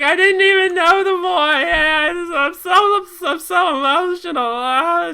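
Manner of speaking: high, loud, sing-song blubbering mockery; mocking crybaby. Mocking strangers crying in news photos with a high whine. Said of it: "Just like".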